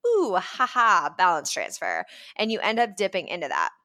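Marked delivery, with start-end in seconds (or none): 0.1-2.0 sheepish. Retold or imitated. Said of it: "you're like".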